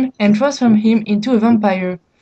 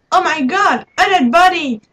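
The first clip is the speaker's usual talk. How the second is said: high, startled gasp of alarm; shocked exclamation; 7 semitones higher than usual. Acted. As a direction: cry out at finding a body. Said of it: "exclaimed Doc".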